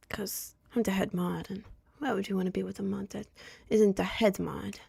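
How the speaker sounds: lightly voiced smug head mod; playing the self-important moderator, a hint of put-on; Discord mod persona. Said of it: "I don't know why my accent changed".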